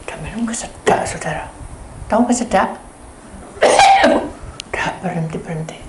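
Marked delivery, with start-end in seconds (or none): 3.3-4.0 tiru batuk tersedak. Retold or imitated. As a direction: batuk keras pura-pura. Meniru kesedak. (meniru pria tersedak air, batuk keras)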